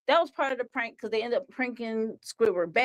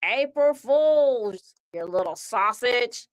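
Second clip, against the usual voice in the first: louder, slow drawn-out taunt; mocking Squidward; 2 semitones higher, 4 dB louder, slower than usual. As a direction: drag out April Fools to gloat. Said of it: "he's like".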